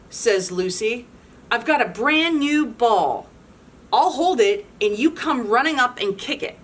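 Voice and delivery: lively storybook read-aloud; animated picture-book narration; reading to children. A narrator's reading. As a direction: read it to a room of kids.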